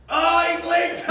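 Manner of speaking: sudden high, loud exclamation; excited surprise. Real, not acted. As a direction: call out the loser with glee. Blink contest just lost.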